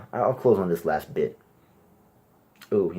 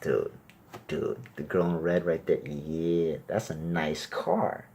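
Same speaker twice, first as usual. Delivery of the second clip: guy ogling; slower than usual. Retold or imitated. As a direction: nudge your buddy, savoring it.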